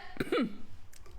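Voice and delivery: hacking, throat-clearing cough; old man's cough. Acted. Old mage interrupted while casting, coughing. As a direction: cough like an aged wizard mid-sentence.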